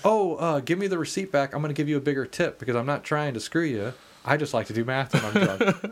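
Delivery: put-on reasonable, friendly drunk explaining himself; polite explanation. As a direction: calmly explain you meant well. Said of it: "what Brendan was trying to say was".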